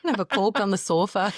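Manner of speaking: playful mock Northern accent with a laugh. Joining in on the Northern family joke, mock Northern accent. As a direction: tease with Northern vowels, half laughing. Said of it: "they're all Northern".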